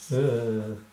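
drawn-out ooh of tottering; cartoon wobble noise; wobbly teetering ooh. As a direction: imitate something about to topple. Imitates teetering on the table.

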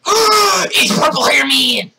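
slow, high excited cry. Real, not acted. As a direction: announce him with glee. Spots a character.

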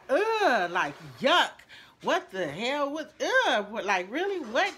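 loud, high, disgusted ugh and what. Retold or imitated. Rude customer sneering at the boy, loud and disgusted.

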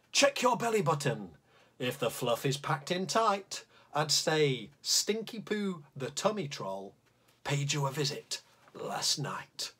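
lively, bouncy storytelling rhythm; reading a poem to children. Acted. Teacher reads the tummy troll poem to the class, playfully. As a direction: read a silly bedtime poem aloud to the kids.

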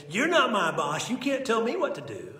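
mock kid yell. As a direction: holler it like an indignant little sibling. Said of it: "they'd start screaming and hollering".

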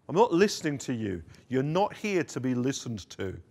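commanding preacher's rebuke; firm rebuke. Acted. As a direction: refuse them outright, with authority. Jesus rebuking the demons.

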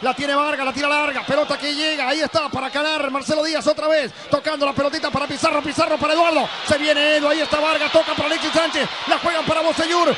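rapid-fire live play-by-play; breakneck goal commentary. Real, not acted. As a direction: rattle off the passes. Fast play-by-play before goal.

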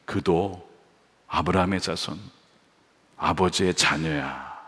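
soft, low, slow tender assurance. Shown as a demonstration. Right way Jesus speaks, soft and tender. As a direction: comfort him like a father. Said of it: "이게 은전을 주시는 방식이에요".

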